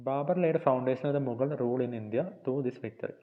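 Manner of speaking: reads English notes slowly, word by word, for copying; slow dictation reading. Shown as a demonstration. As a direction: dictate each phrase slowly so students can write. (പതുക്കെ dictation വായന)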